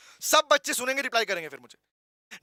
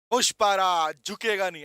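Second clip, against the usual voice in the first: Pushpa; 5 semitones lower than usual. Acted. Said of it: "ऐसा".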